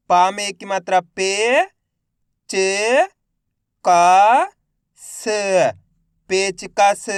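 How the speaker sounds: मज़ेदार stretched very slowly and loudly; syllable by syllable demo. Shown as a demonstration. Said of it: "मेरे साथ साथ इनको repeat करना है". (अक्षर-अक्षर जोड़कर धीमे पढ़ना)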